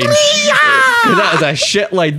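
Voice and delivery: high, slow, crying with laughter; laughing so hard the voice cracks high. Real, not acted. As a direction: squeal it out through laughter. Joke punchline, laughing.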